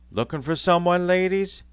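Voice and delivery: high, sly cockney greeting; sly mocking undertaker. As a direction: tease the ladies slyly. Sparsit emerging, mocking.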